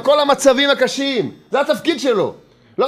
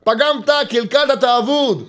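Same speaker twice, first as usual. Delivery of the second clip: harsh raised voice of the accuser; accuser's voice. Acted. The accuser telling David he is lost, harsh. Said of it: "בעל דבר אומר לו".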